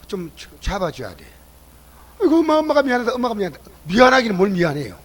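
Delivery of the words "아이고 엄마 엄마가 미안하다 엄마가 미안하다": higher, louder fussing apology at the start, easing off; mock apologetic mother. Mother soothing angry child, mock apologetic. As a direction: imitate a mother giving in.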